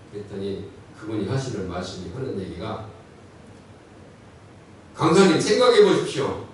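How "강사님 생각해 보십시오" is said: pitched-up retold protest; earnest protesting congregant. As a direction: act out a man pleading his case. Acts out congregant's protesting answer. (항변하는 성도 흉내)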